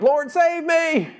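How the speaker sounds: high, loud plea for rescue; a sinking man shouting for help; desperate cry. Acted. Peter crying out sinking.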